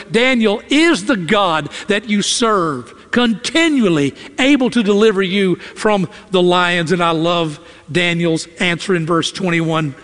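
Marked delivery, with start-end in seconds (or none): 0.1-6.9 a touch of grief in the calling; mild mournful cry to Daniel; sad, sick cry. Acted. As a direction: call out heartsick but understated. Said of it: "cries with a sadness and a sickness in his voice".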